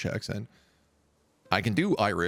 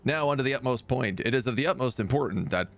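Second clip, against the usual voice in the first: slightly raised, grandly formal mock address; pompous council speech; 4 semitones higher than usual. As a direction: play a ruler solemnly opening council business. Voices himself addressing his council.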